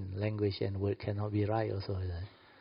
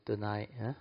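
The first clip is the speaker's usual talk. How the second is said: coaxing wife; 6 dB quieter than usual. Retold or imitated. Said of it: "or you say".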